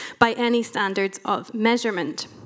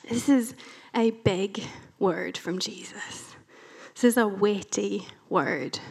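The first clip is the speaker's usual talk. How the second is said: quiet, weighty emphasis; hushed; 3 dB quieter than usual. Real, not acted. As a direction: drop to a near whisper to let it land. Preacher stresses the weight.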